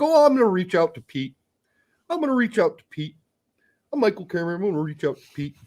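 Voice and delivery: mock the official in a silly Eastern European goat accent. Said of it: "it's a goat accent".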